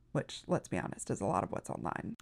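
low hushed aside; whispering. Real, not acted. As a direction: drop to a whisper.

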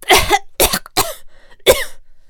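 high raspy choking cough. Acted. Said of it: "started to choke".

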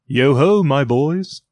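put-on a fat, merry old master calling out; jovial Fezziwig voice. Fezziwig calls out.

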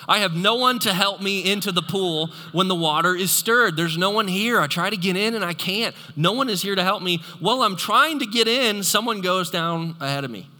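a hammed-up self-pitying lament; whiny invalid. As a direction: plead like a stuck, helpless man. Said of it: "here's the man's response".

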